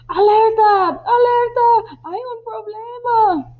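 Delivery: high, loud cry of alarm; alarmed shout. Acted. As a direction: sound the alarm to the crew. (grito de alarma)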